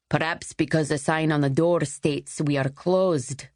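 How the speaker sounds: a touch of curt Scottish annoyance; lightly clipped, irritated question. Acted. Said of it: "he asked curtly".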